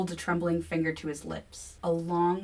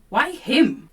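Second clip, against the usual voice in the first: louder, higher demand; 8 semitones higher, 11 dB louder than usual. A narrator's reading. Narrator rounding on William, loud demand. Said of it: "I demand, rounding on William".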